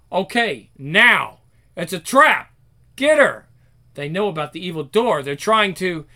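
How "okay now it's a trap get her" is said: loud, punchy orders with rising pitch; urgent command. Acted. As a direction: call out the ambush, louder on each order. Kids ambush a girl in story.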